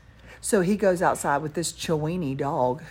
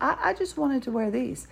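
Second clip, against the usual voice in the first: higher-pitched, mock-innocent excuse; meek excuse; 7 semitones higher than usual. Daughter excusing the yellow headphones to mother, mock-meek.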